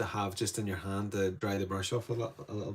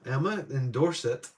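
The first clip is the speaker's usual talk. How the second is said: lightly attempted Dorset accent, higher pitched; 5 semitones higher, 4 dB louder than usual. Painter greeting a viewer from Dorset, attempted accent. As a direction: try a Dorset accent, half-hearted. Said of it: "trying to do these accents".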